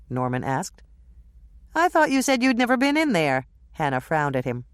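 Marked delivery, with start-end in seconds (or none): 1.7-3.5 raised, accusing question; suspicious surprise. Acted. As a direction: catch him out, surprised. Hannah frowning at Norman.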